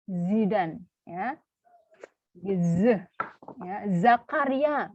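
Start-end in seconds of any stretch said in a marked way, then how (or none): 4.0-4.9 Zakaria with a slow, voiced z; Zakaria with buzzing z. Shown as a demonstration. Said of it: "bukan Sakaria". (Zakaria dengan bunyi z jelas)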